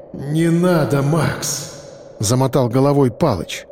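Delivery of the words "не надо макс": мольба. A narrator's reading. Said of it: "В его голосе звучала мольба".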